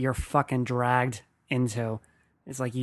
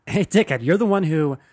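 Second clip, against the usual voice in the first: louder, higher mock confrontation; indignant retort; 4 semitones higher, 7 dB louder than usual. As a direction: fire back at a rude stranger, half in play. Imagined retort to rude stranger.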